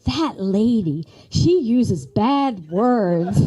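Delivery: drawn out, lightly voiced young son; slow, scandalized child's report. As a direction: tell mom the shocking news, slowly. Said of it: "he goes".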